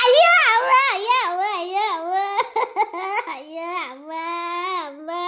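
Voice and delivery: wailing. Acted. Grandmother wailing to the council about her grandson. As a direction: wail and trail off into sobs.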